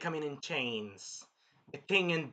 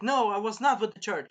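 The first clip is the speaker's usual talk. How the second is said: retold denial; 5 semitones higher, 6 dB louder than usual. Acts princess denying accusation.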